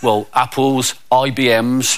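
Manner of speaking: put-on low, downcast kid voice; glum schoolkid. Kid kept back from prize giving, low and glum. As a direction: confess it low, as a sorry kid. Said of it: "there was a single kid".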